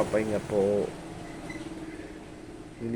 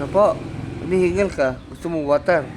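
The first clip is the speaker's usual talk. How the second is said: excited pet talk; 3 semitones higher, 6 dB louder than usual. Real, not acted. Owner gushing at her panting dog, high and loud. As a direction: gush over the panting dog.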